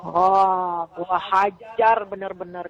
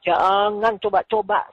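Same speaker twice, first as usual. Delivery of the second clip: slow warning; 4 dB louder, slower than usual. Retold or imitated. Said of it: "saya bilang".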